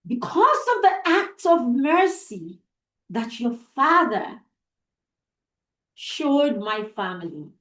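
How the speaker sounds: earnest, lowering vow; solemn promise. Acted. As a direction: promise her gently and firmly. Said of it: "she made a promise".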